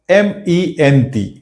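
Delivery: slow letter-by-letter chunk; spelled chunk slowly. Shown as a demonstration. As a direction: dictate "ई एन" as one slow chunk. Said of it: "तीन भाग में". (धीरे-धीरे टुकड़ा बोलें)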